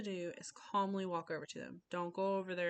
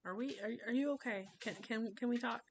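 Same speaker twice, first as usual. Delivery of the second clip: put-on higher, gentle check-in with a child; 4 semitones higher than usual. Shown as a demonstration. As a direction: gently ask if they're okay. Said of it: "which is where you just gently".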